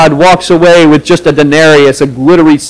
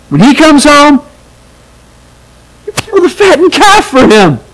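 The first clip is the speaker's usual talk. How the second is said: higher, hurt and resentful plea to father; a lightly voiced bitter older son; aggrieved complaint; 5 semitones higher than usual. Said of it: "the older brother says".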